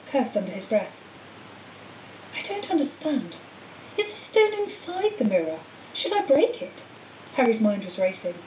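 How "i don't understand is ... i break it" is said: lightly voiced sly villain, cool and smug; a cold schoolmaster gloating over his captive; Quirrell's voice. A narrator's reading.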